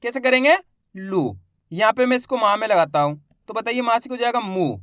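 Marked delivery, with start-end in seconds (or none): 0.9-1.4 लू with a short u, not drawn out; short vowel. Shown as a demonstration. Teacher showing pupils the short vowel, लू kept short. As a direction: say लू briefly without stretching the vowel. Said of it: "ज्यादा खींच के नहीं करना".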